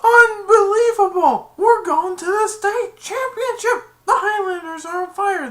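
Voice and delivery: imitated hyped sports announcer; ecstatic announcer. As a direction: bellow it over the crowd. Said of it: "he said".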